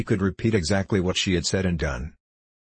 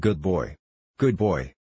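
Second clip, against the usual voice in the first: coaxing; slower than usual. A narrator's reading. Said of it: "in a coaxing tone".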